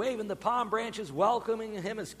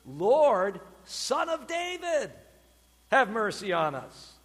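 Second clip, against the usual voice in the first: crying out; 4 dB louder, slower than usual. Retold or imitated. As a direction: imitate blind men calling for mercy. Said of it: "what did they cry out?".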